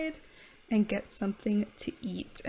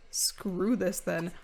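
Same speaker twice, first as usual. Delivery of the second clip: slow fed-up; 2 semitones lower, much slower than usual. Pretend. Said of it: "She's like".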